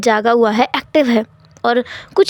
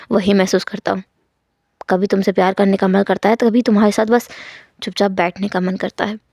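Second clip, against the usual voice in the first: tender confession; 4 semitones lower than usual. Acted. Wangji confesses his love to Wing, low and tender. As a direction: speak low and gentle, like a devoted husband.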